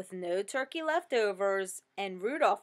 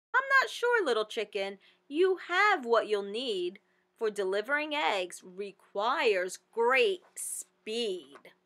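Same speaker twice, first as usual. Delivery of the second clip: a rabbit sceptically talking her down; bunny doubting. Acted. Bunny answers the chicken.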